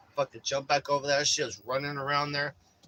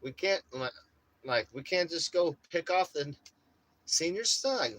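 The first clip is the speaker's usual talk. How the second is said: surprised coyote; 5 semitones higher than usual. Retold or imitated. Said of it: "like surprised".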